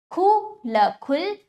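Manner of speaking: खु and ल separately, then खुल; slow syllable drill on खुल; broken, joined pronunciation. Shown as a demonstration. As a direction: sound out खुल slowly, then blend it. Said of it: "तोड़कर जोड़कर उच्चारण".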